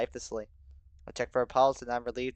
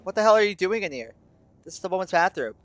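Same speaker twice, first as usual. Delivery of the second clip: higher, startled demand; shocked; 6 semitones higher, 5 dB louder than usual. A narrator's reading. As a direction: burst out in shocked challenge. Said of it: "looks at me with a shock-, shocked expression".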